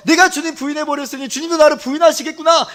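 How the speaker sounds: loud, high mock despair; acted despair. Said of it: "그냥 자포자기하면서". (자포자기를 흉내 내는 설교조)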